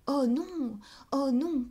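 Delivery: high, loud protesting cry; indignant cry. Acted. Denise cries out, outraged by the absurd question. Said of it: "cria la jeune fille révoltée".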